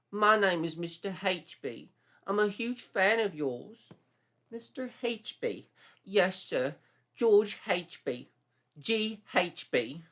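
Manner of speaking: lightly voiced, high eager twink; eager young fan. A narrator's reading. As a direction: gush at the movie star.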